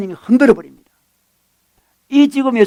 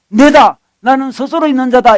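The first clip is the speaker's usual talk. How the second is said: raised, loud proclamation; forceful declaration; 5 semitones higher, 5 dB louder than usual. Retold or imitated. Preacher voicing God's self-revelation, forceful proclamation. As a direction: announce it high and with authority.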